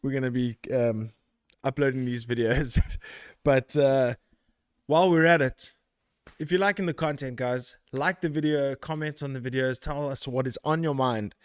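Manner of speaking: talking while catching breath; winded, just ran back in. Real, not acted. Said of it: "I'm out of breath 'cause I ran".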